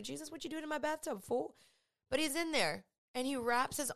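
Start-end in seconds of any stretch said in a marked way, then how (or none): 0.0-1.6 mock surprised. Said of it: "You're like".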